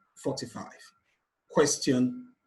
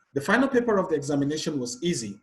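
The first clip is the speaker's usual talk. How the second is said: brisk sentence with final stressed; faster than usual. Shown as a demonstration. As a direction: punch the word final. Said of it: "We're looking at final here".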